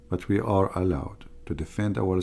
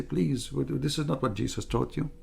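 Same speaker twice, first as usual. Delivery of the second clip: higher, whiny mock plea, rising on each question; hammed-up outraged whine, much higher; mocking pleading whine; 6 semitones higher than usual. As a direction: parody a scandalised questioner pleading in a high voice. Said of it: "They say".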